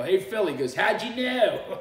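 loud, high mock Philadelphia accent; Philly accent. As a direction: holler it in broad Philly. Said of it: "Of course you're from Philly".

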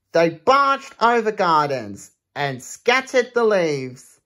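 lively rhythmic read-aloud; reading a rhyming book to children; storybook reading. Acted. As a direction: bounce through the rhyme for kids. Reads picture book aloud.

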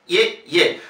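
"ye, ye" as two separate gliding syllables. Shown as a demonstration. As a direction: sound out each "ye". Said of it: "lleva dos Es y es".

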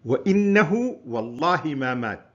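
lightly acted shout to a crowd; imitated public cry. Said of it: "صار يصيح في الناس".

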